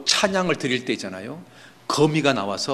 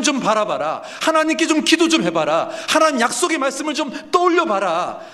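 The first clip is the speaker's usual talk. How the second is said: impassioned self-rebuke; 9 semitones higher, 3 dB louder than usual. Acted. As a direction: shake your own darkened heart awake. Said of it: "그 어두워진 자기 마음을 깨자고 하는 겁니다".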